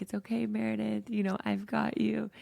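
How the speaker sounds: self-mothering comfort. Retold or imitated. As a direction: soothe yourself like a mother would. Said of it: "mothering myself of".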